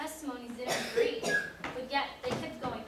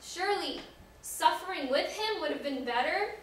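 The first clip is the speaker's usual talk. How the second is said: loud, rising cry of regret; anguished lament; 3 semitones higher, 9 dB louder than usual. Acted. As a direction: cry out to God in remorse, pitch climbing. Peter laments denying his Lord.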